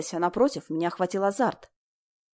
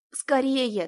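торопит; 5 semitones higher than usual. A narrator's reading. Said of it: "торопила проводница".

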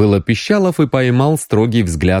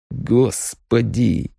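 very slow, higher-pitched sorrowful sigh; woeful; 4 semitones higher, 4 dB quieter, much slower than usual. A narrator's reading. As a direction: lament it, drawn out. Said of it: "пригорюнился Пищалов".

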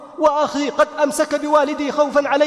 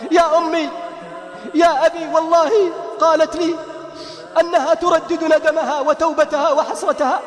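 impassioned preaching. Acted. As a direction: rebuke the whole family like a preacher. Preaching reproach to listeners. (وعظ حماسي بصوت مرتفع)

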